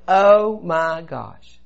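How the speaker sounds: slow, drawn-out dismay; dawning realization. Retold or imitated. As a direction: let each word stretch as it sinks in. Sudden realization during the newscast.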